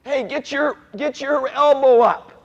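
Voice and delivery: loud mock yell, building on the repeat; imitated coach yelling. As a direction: call it out like a Little League coach. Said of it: "one coach is yelling".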